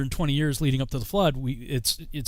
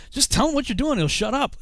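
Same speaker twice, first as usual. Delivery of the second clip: ex-wife's advice; 10 semitones higher than usual. Retold or imitated. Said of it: "she says".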